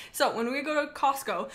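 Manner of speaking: ordinary talk, nothing marked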